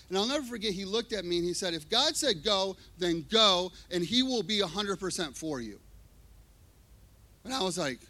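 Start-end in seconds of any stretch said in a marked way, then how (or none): 1.7-5.8 firm command. Retold or imitated. Pastor's firm answer quoted.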